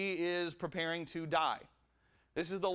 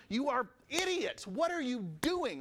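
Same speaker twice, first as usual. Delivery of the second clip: mock exasperation; 6 semitones higher than usual. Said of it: "it's like".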